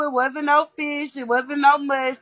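fish and must stretched out slowly with weight; deliberate, drawn-out denial; slow emphatic correction. Shown as a demonstration. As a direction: say it slowly so nobody mistakes it. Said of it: "Let me be clear".

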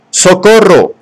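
high cry for help; shouted. A narrator's reading. Bernard calling for help to the police, shouting. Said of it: "Gritó".

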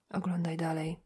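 voiceless hushed prompt; whisper. Acted. Górny nudging Szymański through the photos, whispered. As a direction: whisper it like a secret. Górny urges him to keep looking.

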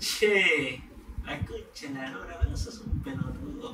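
drawn-out, soft Argentine cursing; Argentine accent. Acted. A turn imitating Argentines, soft Argentine accent. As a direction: curse under your breath like a mock Argentine.

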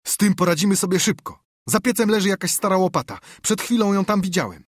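high, loud bandit voice; eager bandit accomplice. Acted. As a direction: pitch it well up, briskly taking charge. (wysoki, donośny głos bandyty)

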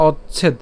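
"অচ্ছেদ" as och plus chhed; careful "অচ্ছেদ" with doubled ch-chh; pronunciation demo. Shown as a demonstration. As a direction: teach "অচ্ছেদ", ending on a closed d. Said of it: "একসাথে যদি উচ্চারণ করি".

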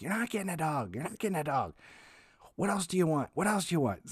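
firm mom. Retold or imitated. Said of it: "she's like".

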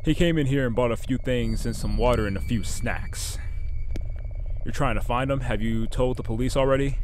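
lightly voiced gruff gas station clerk; a hint of a grumpy night clerk, then suddenly helpful; shop clerk voice. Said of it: "I don't know why I gave him that voice".

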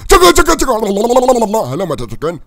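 sweet-talking a farm chicken; cooing at chicken. Acted. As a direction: coax the chicken like a pet, starting high and bright. Coaxing a chicken in game.

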